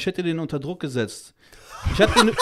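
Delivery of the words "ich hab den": ungläubiges Auflachen. Real, not acted. Erzählt ungläubig von Anzeige.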